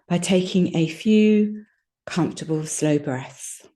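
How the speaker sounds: calm guided relaxation with long pauses; unhurried yoga nidra voice, leaving space between phrases; guided meditation. Real, not acted. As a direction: lead them gently through relaxing, phrase by phrase. Leads a body relaxation.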